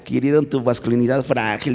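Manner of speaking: high mocking laugh before the jab; mocking cousin laugh. Young cousin mocking her cousin's fragile masculinity, laughing high. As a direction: tease him with a high cackle. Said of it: "y mi prima".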